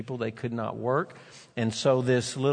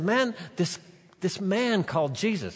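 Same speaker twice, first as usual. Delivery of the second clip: excited telling; 6 semitones higher than usual. Acted. Healed man explains.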